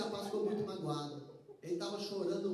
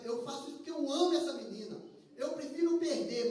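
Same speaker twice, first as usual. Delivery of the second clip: swelling louder and higher on prefiro perder; passionate declaration; 4 semitones higher, 5 dB louder than usual. Acted. Student to his friend, passionately raising his voice. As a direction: pour out his love with rising force.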